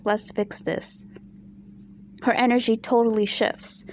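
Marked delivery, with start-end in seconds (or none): 0.0-1.0 soft, slow placating tone; fake soothing Lisa voice. Lisa placating Garcelle in a soft, slow, fake voice. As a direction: mimic her sudden fake calm. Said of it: "she was like".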